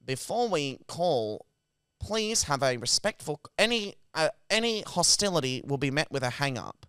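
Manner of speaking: mock automated warning; recorded phone message. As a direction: read it like a hold recording. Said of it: "the voice goes".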